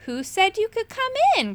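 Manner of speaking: high, indignant dragon cry; high indignant little dragon. A narrator's reading. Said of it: "cried the dragon".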